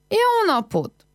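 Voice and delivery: a second high greeting shouted across the yard; calling again. A narrator's reading. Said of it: "Kiáltott még egyet".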